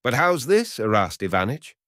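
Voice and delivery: can't believe what he just heard; astonished. A narrator's reading. Barber protests to his customer, astonished. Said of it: "pale, astonished".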